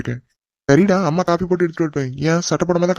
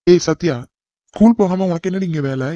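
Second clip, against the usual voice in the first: calling out; 2 semitones higher than usual. Acted. Elder cousin calls out to girl.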